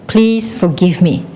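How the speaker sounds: slow echo, falling at the end; echo answering. Acted. The world says it back, slow falling echo. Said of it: "it will also say".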